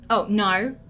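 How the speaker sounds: American accent with an Australian "no"; botched American accent, Australian vowel in "no"; Australian O slipping into American. Shown as a demonstration. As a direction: let the Australian O leak through on "no". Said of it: "hearing those O sounds".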